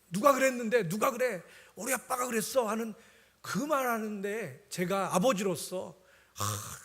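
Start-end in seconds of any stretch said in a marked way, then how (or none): 0.1-2.7 lightly voiced boy, higher, sure of himself; unhesitating child. Son answers without hesitation, lightly voiced proud boy. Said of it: "정말 주저함 없이".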